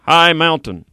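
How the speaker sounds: "high mountain" said firmly, "high" leaned on; emphatic "high mountain"; stress on high mountain. Shown as a demonstration. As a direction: hit "high mountain" as the key words. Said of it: "The emphasis there".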